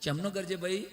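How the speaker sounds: put-on a light Mehsani village accent, slow; lightly mocking Mehsani teacher. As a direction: mimic Mehsani teachers reading the poem. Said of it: "શિક્ષકો એમ ભણાવતા હતા".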